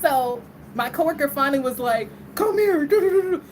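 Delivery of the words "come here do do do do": higher, louder pretend attacker's yell; mock yelling. Coworker jumps in on the phone prank, mock yelling. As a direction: jump in yelling a mock threat. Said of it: "yell at me and all".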